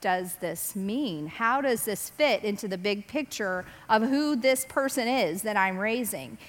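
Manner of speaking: pondering mother. Retold or imitated. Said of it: "She still was going".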